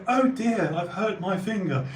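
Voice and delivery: a lightly voiced prim Queen; the Queen politely complaining about her finger; prim mock Queen. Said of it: "she wouldn't go".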